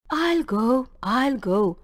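soft, tired sighing words; a worn-out beggar conceding quietly; weary. A narrator's reading. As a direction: give in with tired resignation. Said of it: "he said wearily".

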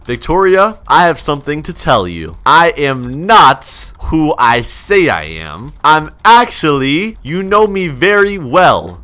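slow, drawn-out confession; measured, theatrical announcement; dramatic reveal. Acted. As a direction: stretch out each phrase for suspense. Staged reveal of secret identity to her.

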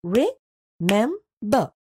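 re-mem-ber slow, each part separate; syllable by syllable. Shown as a demonstration. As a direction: pause between re, mem and ber. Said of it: "can be split into three parts".

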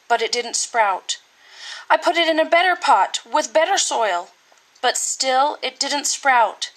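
a touch of tears, understated; mildly choked, pleading with the emperor; boy gently tearful as he explains the empty pot. Acted. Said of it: "Ping started to cry and replied".

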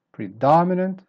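"Predominant" with loud high "dom"; weak, up, down. Shown as a demonstration. Teacher modelling the word, "Predominant" stressed on the second syllable. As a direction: start "Predominant" weak, punch "dom", ease down. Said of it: "then up".

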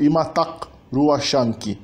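slow model phrase, "ruachanki" said as rua-shan-ki; colloquial Quechua. Shown as a demonstration. Teacher giving an example greeting, colloquial pronunciation of "ruachanki". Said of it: "usada mais comumente na linguagem coloquial".

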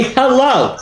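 slow, firm hello, falling; demanding attention. Shown as a demonstration. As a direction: stretch it out to command notice. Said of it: "Demand their attention".

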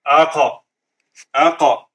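"Aqa" with the q released in a short echoing bounce; qalqala bounce. Shown as a demonstration. Teacher demonstrates qalqala to students, echoing bounce. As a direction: bounce the qaf in "Aqa" after the alif. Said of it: "Did you see how the qalqala".

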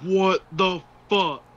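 high, slow, drawn-out disbelief; stunned disbelief. Real, not acted. Co-player stunned by the game's scene, drawn-out disbelief.

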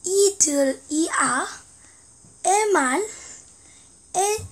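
reading Korean text backwards syllable by syllable; halting, careful backward reading; backwards speech. Shown as a demonstration. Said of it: "거꾸로 읽겠습니다".

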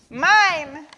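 put-on high, drawn-out childish cry; yelled demand. A narrator's reading. Yak claims it in the tantrum, yelling high. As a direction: whine it high, stretching each word. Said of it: "yelled Yak".

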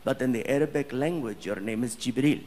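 low, measured, dignified explanation; calm prince. Retold or imitated. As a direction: explain patiently as a composed royal. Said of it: "And he's like".

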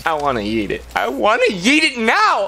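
building demand. Pretend.

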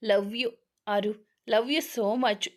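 slow, drawn-out tender confession; tender love you. Acted. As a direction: stretch each word out gently to her. (ನಿಧಾನವಾಗಿ, ಮೃದುವಾಗಿ ಪ್ರೀತಿ ಹೇಳುವುದು)

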